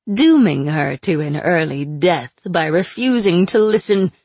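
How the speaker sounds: sly, mocking captive witch; taunting sorceress voice. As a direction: purr it out like a cruel captor. Aina needling.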